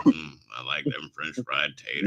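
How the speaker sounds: a hint of a Southern hick savouring food; mild mock Southern accent; redneck voice.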